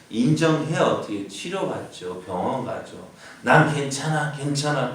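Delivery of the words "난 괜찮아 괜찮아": higher, insistent brushing off; stubborn denial. Pretend. Preacher voicing a stubborn patient refusing help, insistent. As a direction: insist you're fine, stubbornly. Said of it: "고집 피우면 어떻게 돼요?".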